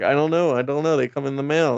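mock-innocent shrug of a boss; lightly voiced newspaper boss playing dumb. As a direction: brush it off lightly, faking ignorance. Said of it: "Jonah Jameson's like".

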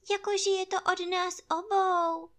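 squeaky and small; tiny piglet. Acted. Ferkel fügt hinzu.

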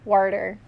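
"Worder" with a clear inner R; imitated pronunciation. Explaining partner's pronunciation, "Worder" with added R. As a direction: say "Worder", R before the D. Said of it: "an R in there".

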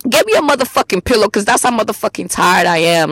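imitated fed-up outburst, stretched at first; retold snapping. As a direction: act out snapping from exhaustion. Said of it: "I snapped".

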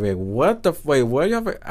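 retold disbelief, rising in pitch; shocked. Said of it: "I was shocked when he told me".

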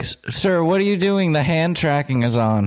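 high, flustered "sir" with stammered start; mock-alarmed metaverse worker; startled VR staff. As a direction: play a shocked attendant catching him. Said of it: "they're like".

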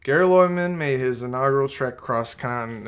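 lightly put-on casual presenter voice; Video Trans Technica voice. Shown as a demonstration. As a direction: slip lightly into your show-host voice, not fully enunciated. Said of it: "in Video Trans Technica, I kinda talk like this".

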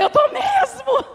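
high-pitched comic retort; mock defiant admission. Mother answering her daughter's accusation, mock defiant retort. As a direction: mimic your own indignant comeback, amused. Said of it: "Eu falei".

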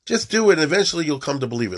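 high, loud push on the first words, then hurried; urging a kid on. Retold or imitated. Telling a kid going off the derech to just do it, urging. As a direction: coax a wavering kid to just do it. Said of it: "like you tell a kid who's going off the derech".

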